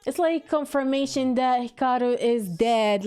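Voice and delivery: teary, choked-up voice; real tears. Real, not acted. Crying as the anime confirms Hikaru is dead, teary voice. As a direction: talk through real tears. Crying over character's death.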